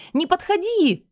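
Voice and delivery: high, loud scream; terrified yell. A narrator's reading. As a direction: yell in panic at the advancing husband. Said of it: "ору я". (истошный крик)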